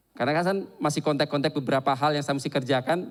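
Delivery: ordinary talk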